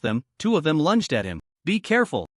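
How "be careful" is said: exclaiming. Acted. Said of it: "Qin Yu exclaimed".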